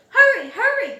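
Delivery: loud, high urgent call. A narrator's reading. Fire chief hurries the firefighters out, loud urgent call. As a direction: hurry them along at full voice. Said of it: "called the fire chief".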